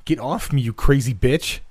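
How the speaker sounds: high, panicked squeak. A narrator's reading. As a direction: squeak it out in fright. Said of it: "I squeaked out".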